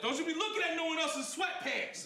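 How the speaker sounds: high mock-jealous yelling at girlfriend. Yelling at girlfriend about other men, mock yell. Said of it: "Yelling stuff at her like".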